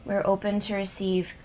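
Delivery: measured, even prayer with pauses between petitions; spoken invocation. Real, not acted. Healer calls in guides to protect the group, measured invocation. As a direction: recite a protective blessing, evenly paced.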